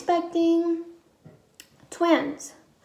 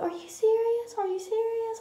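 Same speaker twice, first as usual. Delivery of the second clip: stunned disbelief; 7 semitones higher, 6 dB quieter than usual. Retold or imitated. Husband hears pregnancy news, crying.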